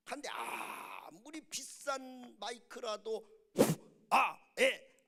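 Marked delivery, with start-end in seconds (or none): 4.1-5.1 short, loud bursts into the mic; mic test shout. Shown as a demonstration. Preacher shows a dead microphone, loud test bursts. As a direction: bark test syllables, much louder.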